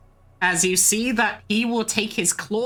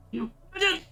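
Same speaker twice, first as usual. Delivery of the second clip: shocked gasp; 5 dB quieter than usual. Acted. Shocked captive gasps.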